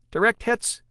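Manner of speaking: high, gleeful report. A narrator's reading. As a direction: relish the hit. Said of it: "the glee evident in her voice".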